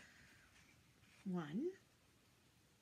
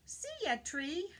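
cheery, louder counting with a high bright farewell; lively counting; 9 semitones higher, 5 dB louder than usual. Pretend. Children's host counting crows away, bright and loud. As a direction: count them off and wave goodbye.

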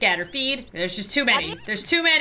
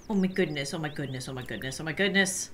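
softer and lower each time; fading awe; 7 semitones lower, 7 dB quieter, faster than usual. Real, not acted. Player overwhelmed by the sight, fading murmur. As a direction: trail off in awe.

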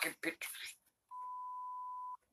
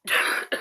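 fake cough; 7 dB quieter than usual. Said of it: "Is the coughing part".

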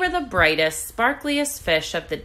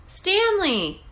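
high cheering of a name; 12 semitones higher than usual. A narrator's reading. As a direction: cheer him home. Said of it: "his friends cheered".

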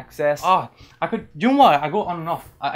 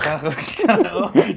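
exaggerated phlegmy Scouse, louder; Scouse accent; 5 semitones higher, 8 dB louder than usual. Shown as a demonstration. Copying a friend and laughing, phlegmy Scouse accent. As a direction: hack up the k's in Scouse. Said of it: "Just do phlegm it".

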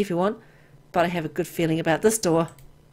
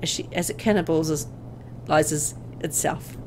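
story narration. A narrator's reading. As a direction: draw the listener into the dread. Reads the horror story text.

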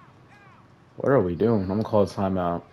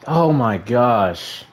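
dismay; 4 semitones higher, 5 dB louder, much slower than usual. Real, not acted. Touchdown conceded, player dismayed.

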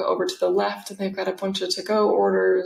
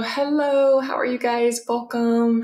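higher, bright shopkeeper hello; cheery greeting; 4 semitones higher, 3 dB louder than usual. Retold or imitated. Smoothie shop staff greet arriving customers, cheerily. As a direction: imitate staff welcoming customers in a lifted voice.

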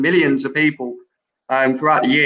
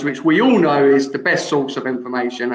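sarcastic. Real, not acted. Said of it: "I say that sarcastically".

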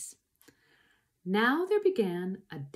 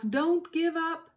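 slow, higher, lightly strained plea; panting; 8 semitones higher, slower than usual. A narrator's reading. Mister Fox urging his family on, lightly panted. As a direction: draw out the urging as if winded. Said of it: "panted Mister Fox".

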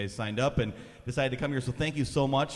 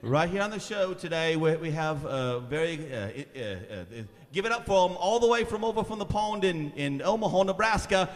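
higher, laughing vintage TV host intro; Ed Sullivan impression; 4 semitones higher than usual. Host introducing the band in his Ed Sullivan voice. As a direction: hype the band like an old variety host. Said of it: "do my best ... impersonation".

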